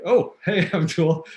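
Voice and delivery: high, laughing hey to the guide; sheepish laughing greeting. Retold or imitated. Waking to find the guide beside him, a sheepish laughing hello. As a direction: laugh it off, a little embarrassed.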